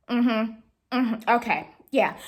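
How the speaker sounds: imitated cooled-off acknowledgement; unenthused phone replies, mimicked; mood switched. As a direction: drop the cheer, just acknowledge. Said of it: "the mood switched".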